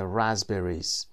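"رازبریز" with a voiced Z and silent P. Shown as a demonstration. Teacher repeating the word for students, Z sound in "رازبریز". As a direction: make the S of "رازبریز" a Z, skipping the P.

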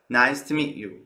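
"to" weakened to a quick "tə"; reduced "to". Shown as a demonstration. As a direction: let "to" shrink to "tə" before "meet". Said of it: "Notice how to is reduced".

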